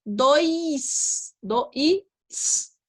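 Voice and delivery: dois drawn out syllable by syllable; teacher sounding out a word for kids. Shown as a demonstration. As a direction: spell dois out slowly by sound. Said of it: "também não está correto, porque seria dois".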